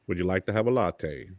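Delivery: calm the yelling down with a mild Morgan Freeman voice. Pretend. Husband to yelling fiancee, lightly soothing Morgan Freeman voice. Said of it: "She starts yelling, and I just go".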